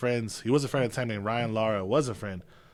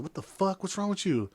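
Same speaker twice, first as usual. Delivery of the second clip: higher-pitched, mildly incredulous demand; alarmed dad; 6 semitones higher than usual. Retold or imitated. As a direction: imitate a father taken aback. Dad finds son crying, retold.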